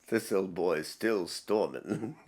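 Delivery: lightly put-on British accent; imitated British accent. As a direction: mimic the British narrator slowly and quietly. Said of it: "I'm loving the British voice".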